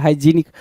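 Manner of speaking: हाइजीनिक with a long ee; हाइजीनिक, long ee in the middle, not हाइजेनिक; say hygienic. Shown as a demonstration. Teacher correcting students' hygienic to हाइजीनिक. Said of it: "हाइजेनिक ना बोल के उसको हाइजीनिक बोलोगे".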